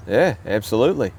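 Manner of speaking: a light Aussie yeah, absolutely; lightly voiced Australian agreement; Australian accent. Joking about Australians, a mild Australian accent. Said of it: "That's my Australian accent".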